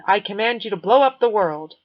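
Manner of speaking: loud hammed-up command; mock villain command. Kid mocks a terrorist command, loud. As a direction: bellow it like a cartoon tyrant. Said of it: "ending up with".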